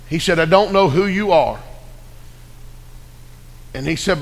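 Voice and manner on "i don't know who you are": restrained, humbled concession; the forester's bluster gone, near everyday pitch; changed tone. Acted. Keeper to Nehemiah after reading the letter, changed tone. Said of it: "kinda had a different tone".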